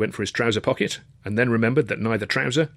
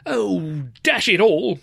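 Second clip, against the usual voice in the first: high, put-upon groan; moaning; 9 semitones higher, 4 dB louder, much slower than usual.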